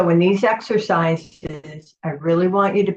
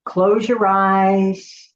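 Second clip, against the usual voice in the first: slow, drawn-out close your eyes; slow instruction; much slower than usual. Shown as a demonstration. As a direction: say it slowly and calmly. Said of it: "guided instruction to close eyes".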